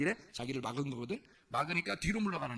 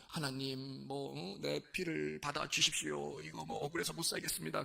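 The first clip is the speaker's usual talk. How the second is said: lightly acted plea, softer and drawn out; half-hearted, subdued imitation of a plaintive appeal; mock aggrieved plea; 4 dB quieter than usual. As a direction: feign a wronged victim quietly petitioning God. Imagined Abel pleading his grievance to God.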